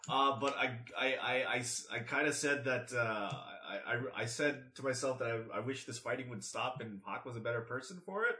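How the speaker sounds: sheepish. Acted. Sheepish character confession, fading.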